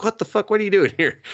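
high, loud startled voice; shocked boy. Retold or imitated. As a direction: yelp it in disbelief. Boy shocked she appears.

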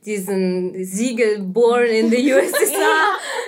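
amused, laughing as she speaks. Real, not acted. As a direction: laugh through the phrase. Laughing about her birth stamp.

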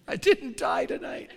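laughed-through punchline; laughing punchline. Real, not acted. Preacher laughs telling the crowd he survived. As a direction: let the laugh carry the words, breathy.

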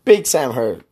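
Big Sam Heard, punched hard on Big and falling; punchy show name sign-off. Shown as a demonstration. Host trying how to say his show name, punchy. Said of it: "No, I don't say it like that either".

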